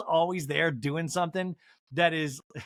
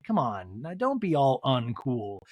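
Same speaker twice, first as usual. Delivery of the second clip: Countess Luann; 4 semitones lower, slower than usual. Retold or imitated. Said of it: "Almost like a Countess Luann".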